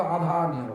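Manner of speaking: আধা আনি with the র sounds left out; light imitation of Rangpur speech; dropped র. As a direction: say রাধা রানী as আধা আনি. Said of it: "রাধাকে রাধা বলতে".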